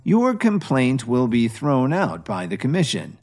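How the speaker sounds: calm. Acted. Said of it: "smiled and said calmly".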